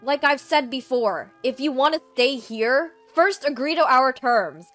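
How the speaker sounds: loud, stern laying down of terms; forceful refusal. Acted. Eden sets terms for his sister to stay, stern and loud. Brother rejects offer, lays down terms.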